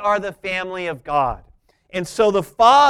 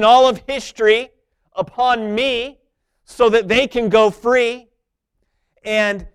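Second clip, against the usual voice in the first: Jesus' resolve; 5 semitones higher, 6 dB louder than usual. Retold or imitated. Jesus voiced before crucifixion.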